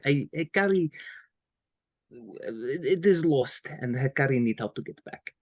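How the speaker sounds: hesitant third-person character voice; lightly voiced sheepish crewmate; awkward crew member. Crewmate asking the old captain for help, haltingly in character. Improv scene as Hikari.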